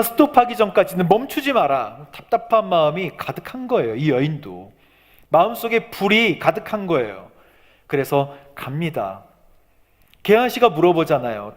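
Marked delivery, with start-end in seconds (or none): none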